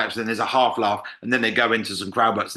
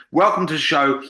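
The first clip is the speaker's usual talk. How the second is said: higher, louder showman greeting; mock host welcome; 4 semitones higher, 3 dB louder than usual. Compere walking on stage, higher louder welcome. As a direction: open the show with a bang. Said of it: "walk on and say".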